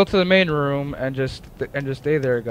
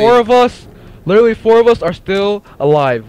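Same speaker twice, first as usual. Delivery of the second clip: exasperated shout; 6 semitones higher, 8 dB louder than usual. Real, not acted. Scolding teammates mid-match.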